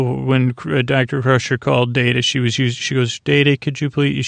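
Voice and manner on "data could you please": flat robotic monotone, lightly done. Retold or imitated. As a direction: speak it like a machine. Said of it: "she had a robotic voice".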